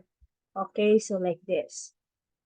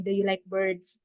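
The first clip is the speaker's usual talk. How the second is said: level tune on "Do you like birds?"; flat, wrong question tune; deadpan no rise; monotone; 3 semitones lower, 3 dB quieter than usual. Shown as a demonstration. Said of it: "No, it's a monotone".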